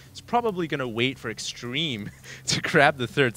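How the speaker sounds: breaking into a laugh mid-sentence; can't hold back the laughter. Real, not acted. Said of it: "I can't stop laughing when I say his name".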